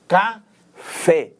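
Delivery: "Café" slowly split, weight on "fé"; stress on last syllable. Shown as a demonstration. Teacher illustrating oxytones, final stress on "Café". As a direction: separate "Ca" and land firmly on "fé". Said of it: "a sílaba tônica está na última sílaba".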